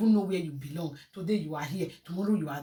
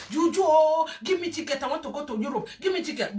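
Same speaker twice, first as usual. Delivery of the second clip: mock plea; 5 semitones higher, faster than usual. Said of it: "go to that juju shrine".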